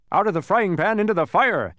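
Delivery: high, loud cry; shouting count. A narrator's reading. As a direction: yell it out as if just burnt. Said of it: "shouted the count".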